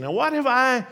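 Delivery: loud, high, aggrieved protest; indignant oyster crying out at injustice; heated complaint. Acted. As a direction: demand to know why me, with heat. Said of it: "the oyster might have said with considerable heat".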